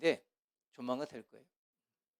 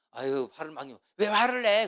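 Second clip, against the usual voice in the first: irritated snap; 4 dB louder than usual. Shown as a demonstration. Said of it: "그러지 말고".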